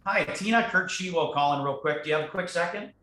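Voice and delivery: polite, calm professional caller; respectful caller. Shown as a demonstration. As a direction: ask permission politely. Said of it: "let me show you".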